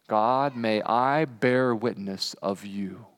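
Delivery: slow, hushed, earnest prayer; quiet prayer. Shown as a demonstration. Pastor models a weekly prayer for the congregation, hushed and slow. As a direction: pray it softly and slowly. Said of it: "Make this your prayer this week".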